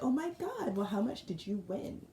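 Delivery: wide-eyed, greedy surprise; surprised gasp. Retold or imitated. Girlfriend hearing he won the lottery, surprised.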